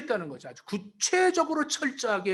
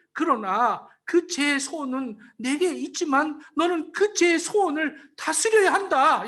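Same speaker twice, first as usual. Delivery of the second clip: pleading God; 3 semitones higher than usual. Acted. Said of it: "그를 만류하십니다".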